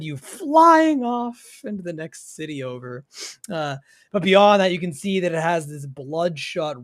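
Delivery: game master narration. A narrator's reading. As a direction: draw out each image like a suspenseful storyteller. Game master describes the creature.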